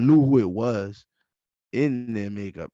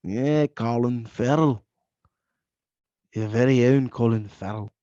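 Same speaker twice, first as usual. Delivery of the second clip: put-on terrible Irish accent. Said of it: "That's my terrible Irish accent".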